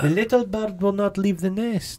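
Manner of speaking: high-pitched mock German accent. Playing the guerrilla for co-host, high mock German accent. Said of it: "my accent convinced you".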